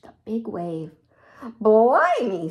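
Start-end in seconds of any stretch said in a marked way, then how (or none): 1.6-2.5 scowling. Acted. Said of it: "scowled Quincy".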